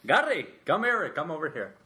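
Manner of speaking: put-on calling out in East Indian accent. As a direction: beckon Gary in the friend's accent. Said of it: "Your East Indian accent".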